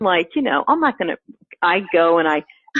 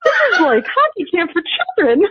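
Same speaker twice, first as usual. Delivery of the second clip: much higher, scoffing judgy hockey mom; mock disapproving mom; 10 semitones higher than usual. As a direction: sneer it as a snooty parent. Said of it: "all these mothers are looking at me like".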